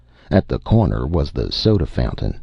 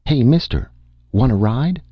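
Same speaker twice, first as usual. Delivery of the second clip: higher-pitched friendly hail; calling out; 8 semitones higher than usual. A narrator's reading. Kids in a car offering a stranger a lift, calling out.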